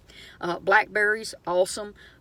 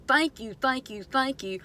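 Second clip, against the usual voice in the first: a grateful body crying thanks, pitched higher; playful higher thank you from your own body; 4 semitones higher than usual. Retold or imitated. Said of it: "your body is gonna be screaming at you".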